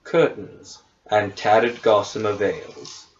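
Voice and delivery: measured game master narration; scene setting. Acted. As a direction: read the room description evenly. Game master reads room description.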